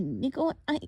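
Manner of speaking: a slight catch in the voice; voice breaking a little. Acted. Girl admitting they have no family, voice cracking slightly. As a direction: let the voice crack just a bit. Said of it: "her voice broke a little".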